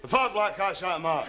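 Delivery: The fat black cat sat on the mat in broad Scots; mumbled Scots delivery; Scottish accent. Acted. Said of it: "No, no, no".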